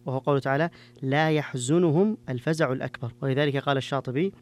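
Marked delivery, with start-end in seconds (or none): 1.0-3.1 يحزنهم said "yahzunuhum", a first and u after the z; majority reading. Shown as a demonstration. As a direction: recite slowly with يحزنهم as "yah-zu-nu-hum". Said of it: "وافق الجماعة فيها".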